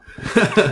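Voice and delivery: loud high laugh; sudden high-pitched laugh; high burst of laughter. Real, not acted. Laughs at choking mishap.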